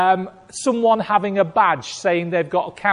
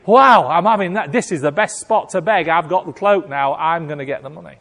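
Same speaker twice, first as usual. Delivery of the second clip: a lightly voiced eager beggar, a bit louder; greedy beggar; 5 dB louder, faster than usual. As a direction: lightly play a grabby beggar pleased with his find. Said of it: "a lame man next door to him who was grabbing that cloak".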